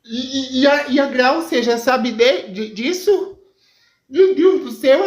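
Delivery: hammed-up horror with a nervous laugh; shocked. Mãe ouve que o sobrinho foi sequestrado, chocada e aflita.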